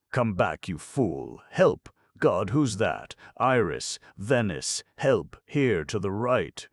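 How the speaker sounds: high, loud cries for help; desperate loud shouting. Acted.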